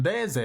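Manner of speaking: DEZE starting with a tap close to D, "deh-zeh"; Japanese-style Deze; Japanese pronunciation. Shown as a demonstration. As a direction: say Deze the Japanese way, pure short vowels. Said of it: "You know what it is in Japanese?".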